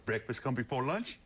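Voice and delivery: a lightly voiced farm kid; kid voice, Southern. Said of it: "He said".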